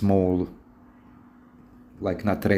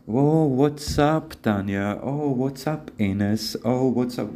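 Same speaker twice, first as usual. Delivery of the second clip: flirty greeting; 3 semitones higher, slower than usual. Shown as a demonstration. Coaching a flirty greeting to her.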